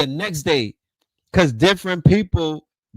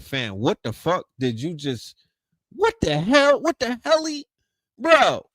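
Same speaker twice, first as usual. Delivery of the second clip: shocked outburst; 4 dB louder than usual. Retold or imitated. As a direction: blurt it in total disbelief.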